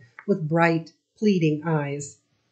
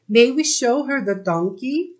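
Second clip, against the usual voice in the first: eager asking; 7 semitones higher, 3 dB louder than usual. A narrator's reading. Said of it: "cried Layla".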